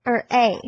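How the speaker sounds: A said as the open Spanish ah; Spanish vowel A. Shown as a demonstration. Teacher gives the Spanish vowel, an open ah. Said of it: "the vowel A or A in Spanish".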